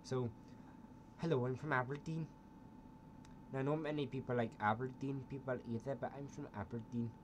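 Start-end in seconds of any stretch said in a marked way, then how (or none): 1.2-7.1 put-on Aberdeen accent. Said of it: "a different Scottish accent".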